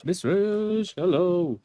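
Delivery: high, loud sing-out hello; excited greeting. Real, not acted. Streamer greeting a viewer who turned up, loud and excited. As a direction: call out to a friend in delight.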